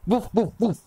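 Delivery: high imitated woofing; three high "woof" barks; wolf barks. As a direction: bark like a pack of wolves. Wolves arrive and greet him.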